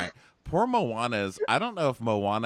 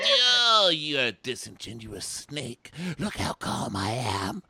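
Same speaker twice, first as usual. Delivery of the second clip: a high yelp, then slow put-on calm; yelp, then force a smug calm; hammed-up fake serenity; mock calm; 4 semitones higher, slower than usual. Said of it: "And he's like".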